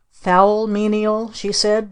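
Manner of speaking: slow, otherworldly witch voice; slow, stagey witch voice; witchy command. Acted. Witch aunt commanding servant.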